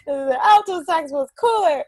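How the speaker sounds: a hint of a pouty kid; pouting kid. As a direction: whine it like a sulking boy. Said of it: "I was pouting".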